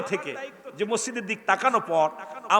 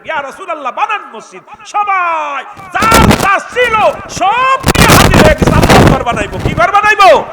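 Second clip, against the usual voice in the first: high plea swelling into a huge shout; full-force preaching; 13 semitones higher, 16 dB louder than usual. Acted. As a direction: rouse the crowd, roaring and stretching the words. (গলা ফাটিয়ে জনতাকে জাগানো ওয়াজ)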